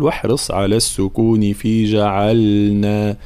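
slow recited line of poetry; quoted verse. Retold or imitated. Teacher quotes Ibn al-Jazari's verse, slow recitation. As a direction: chant the rule slowly. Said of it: "قال".

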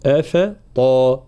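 أفطا with thin hamza and fa, heavy taa; light then heavy. Shown as a demonstration. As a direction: slowly contrast the light opening of أفطا with its thick taa. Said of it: "ترقيق الهمزة والفاء ثم تفخيم". (أفطا بترقيق ثم تفخيم الطاء)

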